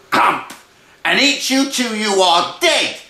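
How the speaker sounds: loud burst after the hush; sudden pounce. Acted. Brother scares Freddy with the cat's pounce, loud burst. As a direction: jump out at the listener, rising loud.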